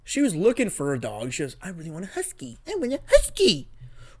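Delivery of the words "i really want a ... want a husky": mock eager girlfriend. Host mimics his ex asking for a husky, mock eager. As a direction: imitate her wanting it, building higher. Retelling ex begging for a dog.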